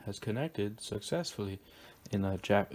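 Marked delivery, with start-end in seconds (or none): 0.0-1.6 light imitation of a Chinese accent. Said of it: "in, like, a Chinese accent".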